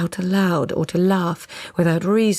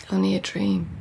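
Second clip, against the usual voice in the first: shaky relieved laugh; 10 semitones lower than usual. Acted. Shaken relief after nightmare.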